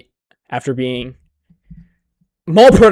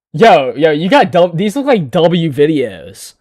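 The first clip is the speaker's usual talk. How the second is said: hyped up; 3 semitones higher, 6 dB louder than usual. Real, not acted. Hyped reaction to the videos.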